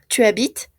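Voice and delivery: habites ending on t, the es unsaid; silent ending. Shown as a demonstration. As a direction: say habites with no final vowel or s. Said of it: "no se pronuncia".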